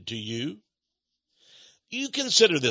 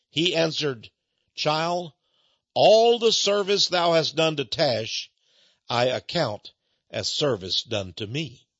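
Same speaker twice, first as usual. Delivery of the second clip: louder, slow solemn reading of scripture-like prose; dramatic reading; 4 dB louder, slower than usual. Acted. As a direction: read it as a grave story. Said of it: "Now I'm reading from the book".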